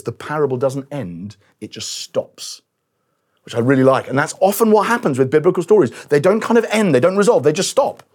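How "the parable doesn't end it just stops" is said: quiet quote. Retold or imitated. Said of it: "Kenneth Bailey says".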